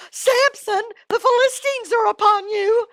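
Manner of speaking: very high, loud holler; Delilah. Acted. Delilah warning Samson after braiding his hair, hollering. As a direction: shriek the warning in a put-on high voice.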